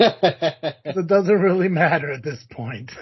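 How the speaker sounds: slow words through a laugh; laughing, drawn out. Real, not acted. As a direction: laugh while saying it slowly. Repeats line, laughing, slower.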